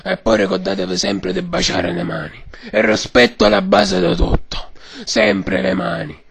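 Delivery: hoarse mock mafia boss; Godfather voice. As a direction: preach respect like a don. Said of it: "signor Padrino".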